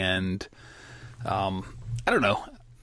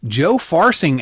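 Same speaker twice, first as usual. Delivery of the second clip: sultry voice; 6 semitones higher, 7 dB louder, slower than usual. Acted. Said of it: "said in my, uh, sultry voice".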